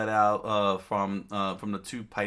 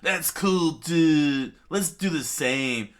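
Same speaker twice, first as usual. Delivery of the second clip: louder, higher eager call; loud excited boy; 7 semitones higher, 8 dB louder, slower than usual. Acted. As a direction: gush about it. Luffy excited.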